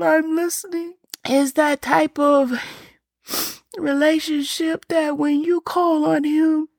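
speaking through welling tears; tearful. Real, not acted. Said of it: "Man, I'm gonna cry".

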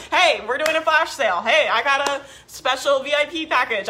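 hammed-up, eager, laughing sales push; mock sales pitch. Mocking herself as she pushes sales to hit her monthly goal. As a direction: ham up a last-minute sales pitch, with giggles. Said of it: "you guys will see me be like".

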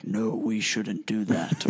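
slow, lightly voiced funky wizard; imitating dad's funky wizard voice, slowly; deep funky voice. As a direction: draw it out in a hint of funky wizard voice. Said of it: "like, kinda funky voice".

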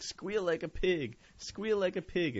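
slow, high hillbilly taunt. Retold or imitated. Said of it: "they're like".

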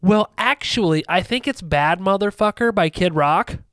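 lightly mocked pedantic kid; smart-ass kid. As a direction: correct them like a little smart aleck. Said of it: "the little smart ass".

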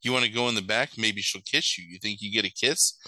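low-key, leering priest voice; lightly voiced sleazy murmur; creepy priest. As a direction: imitate a creep coaxing someone. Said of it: "It's, like, the creepiest shit".

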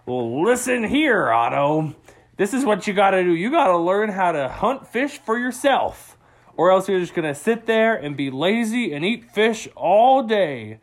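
dad telling his lazy son what's what; mildly firm fatherly lecture; lightly voiced stern dad.

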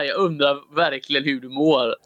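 mock the host's earnest question in the clip's cadence; teasing clip imitation. Co-host teases host's question, lightly imitating the clip. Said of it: "Det lät verkligen sådär".

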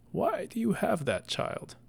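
high, strained, slow gasp that fades to breath; the dying man can barely get the question out; wounded shock. Acted. Stabbed old messenger asks the damsel why, in breathy high shock.

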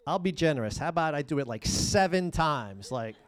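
mock-generous Peter haggling, rising to a laughing high shout; Peter bargaining. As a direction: play Peter bargaining like a market trader, then crack up. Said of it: "Peter came to Jesus and asked".

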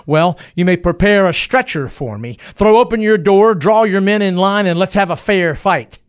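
defiant challenge. Acted. Booth inside the barn daring the soldiers, loud defiant challenge. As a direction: throw the challenge out across the yard.

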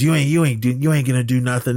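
half-acted angry yell at a rival; retold yelling. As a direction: imitate a bully yelling. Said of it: "This is Troy yelling at Derek".

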